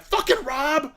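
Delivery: high, sharp curse at Rob; a gamer snapping at a rival; angry outburst. Retold or imitated. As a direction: imitate her yelling in frustration. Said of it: "she was like".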